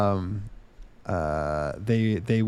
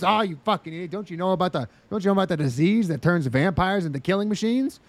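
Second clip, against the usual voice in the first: mocking exposition character; 4 semitones higher than usual. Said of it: "And he goes".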